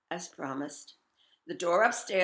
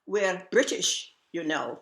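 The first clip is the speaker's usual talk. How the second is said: buck them up brightly; Annie's cheery rallying cry; 2 semitones higher, 4 dB louder than usual. Retold or imitated. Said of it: "Annie would say".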